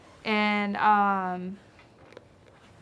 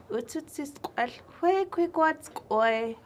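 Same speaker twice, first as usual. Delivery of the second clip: chipmunk's startled reply; 6 semitones higher, 3 dB louder, slower than usual. Acted. Chipmunk answers Owl Lady.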